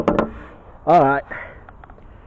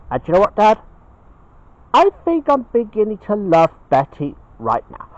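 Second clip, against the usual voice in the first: higher, lightly voiced bear son; Ben the Bear, confiding; 8 semitones higher, 4 dB louder than usual. Ben confesses new love to his dad, higher and eager. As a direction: declare it brightly to Dad, pitched up.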